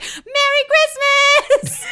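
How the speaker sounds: very high, loud festive greeting; mock-cheery sister, pitched far up; arriving sister. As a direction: sing out the greeting in a squeal. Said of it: "my sister walks in and is like".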